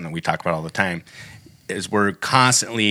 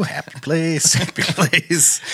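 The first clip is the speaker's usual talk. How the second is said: calming self; 8 semitones higher, slower than usual. Real, not acted. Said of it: "deep breath".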